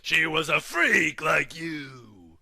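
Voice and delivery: slow, drawn-out "freak like you" with a shout; mock villain jeer; sneering shout. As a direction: sneer it at the prisoner.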